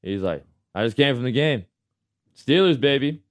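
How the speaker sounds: rowdy impression, ending in a loud, high holler; imitating a drunk fan. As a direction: play a drunk football fan working up to a yell. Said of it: "just drunk off his mind".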